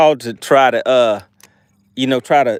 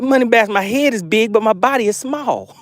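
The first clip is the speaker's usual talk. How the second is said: voiced fish; 9 semitones higher than usual. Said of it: "he's like, he's like".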